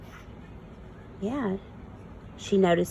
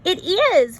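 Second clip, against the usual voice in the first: higher, louder joyful reply; shouting back; 11 semitones higher, 6 dB louder than usual. Acted. Farfalina shouts back to Marcel, overjoyed. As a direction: cry out with delight. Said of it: "Farfalina shouted back".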